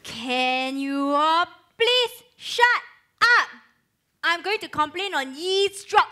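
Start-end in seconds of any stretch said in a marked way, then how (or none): 0.0-3.5 drawn-out, very slow complaint; exasperated. Acted. Student tells off a noisy room, exasperated. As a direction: stretch each word in exasperation.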